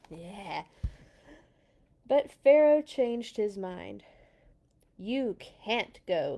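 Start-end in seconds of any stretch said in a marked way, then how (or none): 5.0-6.4 slow refusal. Acted. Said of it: "he said".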